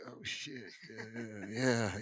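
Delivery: hushed under-the-breath dread; whispered dismay. Retold or imitated. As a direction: mutter it to yourself in sinking dread. Dreading the director's verdict.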